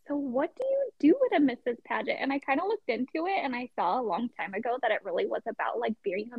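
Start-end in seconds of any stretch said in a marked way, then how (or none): 0.1-2.2 retold puzzled question, pitched higher; mildly dumbfounded. Contestant recalling her first reaction to married women's pageants, mildly dumbfounded. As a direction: recall being a little baffled, voice lifted. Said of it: "I was a little dumbfounded".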